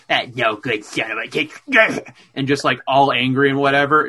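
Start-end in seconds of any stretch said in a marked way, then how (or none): 0.1-2.1 cussing. Retold or imitated. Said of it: "she's cussing out her boyfriend".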